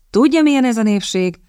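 a lightly voiced offhand shrug; careless dismissal. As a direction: brush it off casually with a wave of the hand. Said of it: "legyintett hanyagol mister Stanfield". (hanyag, legyintő hangon)

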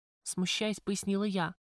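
ordinary delivery

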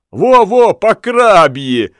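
high, loud "Во-во", slow "по крабье"; eager agreement. A narrator's reading. Lamme eagerly backs up Ulenspiegel. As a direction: chime in gleefully. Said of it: "подхватил Ламме".

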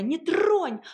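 выше и громче, крик; кричать, отбиваясь. A narrator's reading. Героиня вопит, вырываясь. (крик, выше и громче)

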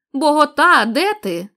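calling out. Acted. Villagers calling to Nunez.

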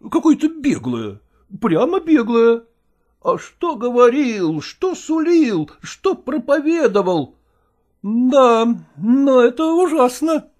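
a lightly voiced indignant actor. A narrator's reading. Actor Chechentsev to Malkova, lightly voiced and indignant.

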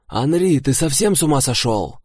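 outraged at the spirit; indignant. A narrator's reading. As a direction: demand it in outrage. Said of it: "возмутился я".

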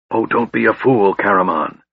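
light exasperated rebuke; a touch of exasperation; exasperated snap. Acted. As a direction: snap at the fool brother, mildly. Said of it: "Raistlin snapped in exasperation".

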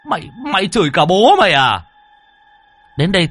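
high, loud outraged cry; loud high indignant shout; shrieking in outrage. Acted. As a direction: scream it in disbelief. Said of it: "mà rít lên".

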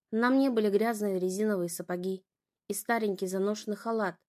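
usual speaking voice

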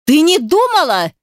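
high, loud furious yell. A narrator's reading. Man yelling back at the girl, loud raging yell. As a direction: roar it back at her. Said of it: "заорал я в ответ".

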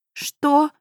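outraged disbelief; indignant exclamation. Acted. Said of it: "возмущённо воскликнула я".

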